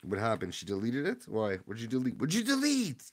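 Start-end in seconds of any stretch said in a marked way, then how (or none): 2.2-3.0 high squeaky outcry; high-pitched disbelief. Real, not acted. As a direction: voice leaps way up on the question. Repeats question in exaggerated disbelief.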